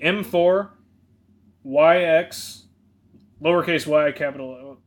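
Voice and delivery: spelling it out. Shown as a demonstration. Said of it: "Let me start over again".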